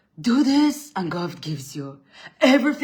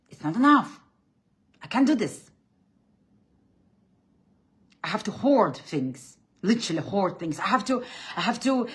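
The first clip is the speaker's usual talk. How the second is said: raised, fretful voice of scarcity; anxious inner voice; 3 semitones higher than usual. Retold or imitated. The subconscious mind panicking about lack, fretful. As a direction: sound like a hoarding worrier. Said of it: "That's your subconscious mind saying".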